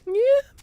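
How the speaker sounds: sharp upward inflection on "Yeah"; rising end. Acted. Streamer mocking Robert's Australian rising intonation. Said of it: "you go up at the end of sentences a lot".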